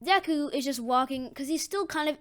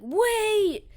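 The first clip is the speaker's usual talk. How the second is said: high, loud drawn-out call; urgent calling out; 10 semitones higher, 9 dB louder than usual. Acted. Deku stops All Might jumping away, urgent. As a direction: call after someone about to leave. Deku calls hero back.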